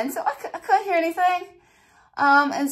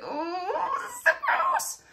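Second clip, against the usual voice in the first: grossed-out laugh; 7 dB quieter than usual. Retold or imitated. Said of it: "And I'm just like".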